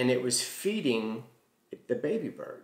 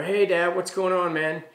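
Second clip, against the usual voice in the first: calling out; 6 semitones higher, 6 dB louder than usual. Retold or imitated. Calling out to dad outside.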